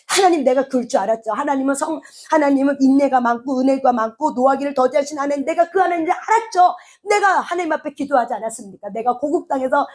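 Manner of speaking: mildly voiced complaint to God; acted protest. Jonah protests to God that he knew He was merciful, acted protest. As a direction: argue your case, lightly acted. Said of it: "하나님 앞에 막 항변하는 거야".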